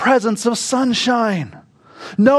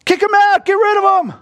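triumphant exclamation; 10 semitones higher than usual. Real, not acted.

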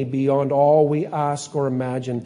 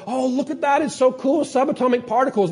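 higher, hammed-up gasp of wonder; mock wonder; 8 semitones higher than usual. Preacher voices scientists finding particles, high mock wonder. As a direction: marvel like a kid at the microscope.

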